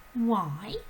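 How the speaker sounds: put-on breathless girl's cry. A narrator's reading. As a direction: cry out the news in distress. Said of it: "Matilda cried".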